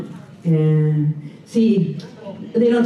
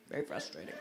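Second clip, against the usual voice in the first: a low murmured echo, much softer; dropped low and soft; 11 semitones lower, 16 dB quieter, faster than usual. Shown as a demonstration. Comic sympathy for the fridge complaint, low and soft. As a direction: drop way down and go soft.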